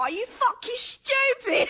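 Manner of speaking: put-on cross, offended, angry British accent, drawn out. Imitating British people getting mad: mock British accent. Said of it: "British people get mad and be like".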